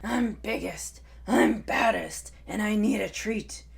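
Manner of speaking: swaggering T. rex brag, fairly loud; boastful dinosaur. Acted. Tai boasts at the Diplodocus, swaggering roar. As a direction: puff up and boom the boasts.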